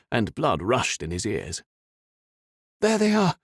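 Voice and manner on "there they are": out of breath, high and loud; panting. A narrator's reading. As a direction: gasp it out breathlessly. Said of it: "Safiri panted".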